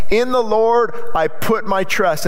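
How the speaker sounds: slow, firmly emphatic declaration of faith; reminding himself. Acted. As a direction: remind yourself with measured conviction. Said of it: "he had to remind himself".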